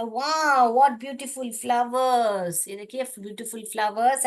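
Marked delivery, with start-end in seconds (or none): 0.0-2.7 excited. Shown as a demonstration. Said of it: "ये फूल को देख के बोला".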